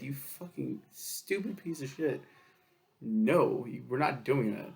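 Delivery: slow, lightly voiced contempt from father; drawn-out scornful put-down; mock disgusted scolding. Father mocking his son's dumb idea with slow contempt. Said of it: "gave me this look like".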